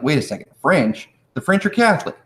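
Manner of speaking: mock-puzzled objector, pitch climbing; puzzled objection. Teacher voices a student doubting France's role, puzzled objection. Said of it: "Now, you might be like".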